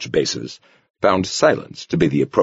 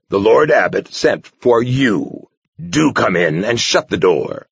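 dry mock repetition; 4 semitones higher, 3 dB louder, slower than usual. Abbot mockingly repeats the novice.

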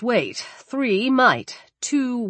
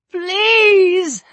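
high, loud, shocked plea; reedy with shock; 11 semitones higher, 5 dB louder than usual. Acted. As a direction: beg in shock. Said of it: "his voice reedy with shock".

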